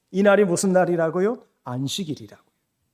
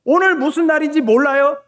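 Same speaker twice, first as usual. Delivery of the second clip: raised, coaxing plea to the father; pleading son; 5 semitones higher than usual. Retold or imitated. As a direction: gently try to talk the father out of it. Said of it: "이렇게 말했을 거예요".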